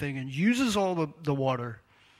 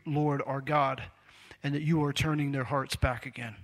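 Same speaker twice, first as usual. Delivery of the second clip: earnest prayer; 3 dB louder than usual. Acted. Reads Elijah's prayer aloud.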